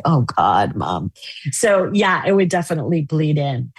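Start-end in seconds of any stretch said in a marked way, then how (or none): 0.0-1.1 put-on embarrassed kids.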